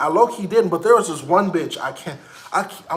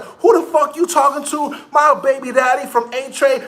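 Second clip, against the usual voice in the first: mock outraged coworker; 6 semitones higher than usual. Coworker quoted in argument.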